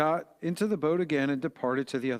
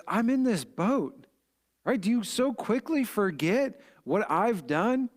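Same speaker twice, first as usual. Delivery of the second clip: higher, slower pointed reminder; Jesus to his disciples, a higher, slow rebuke; Jesus rebuking; 6 semitones higher than usual. Retold or imitated. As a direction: remind them who is in the boat with them.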